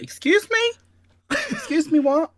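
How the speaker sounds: high, loud outraged excuse me; shocked. Retold or imitated. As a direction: retell the shock, voice shooting up. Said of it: "And I was like".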